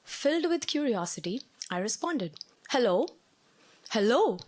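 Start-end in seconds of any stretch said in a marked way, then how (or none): 2.7-3.1 raised, questioning "Hello?" called out louder with a rising tune; calling out. Retold or imitated. Calling into trash chute. 3.9-4.4 louder "Hello?" called with a falling tune; calling out. Retold or imitated. Calling into trash chute again.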